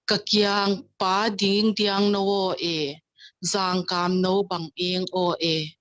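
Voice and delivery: slow, measured verse reading; poem recitation. Acted. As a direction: recite the verse slowly with drawn-out line endings. Recites the poem she introduced.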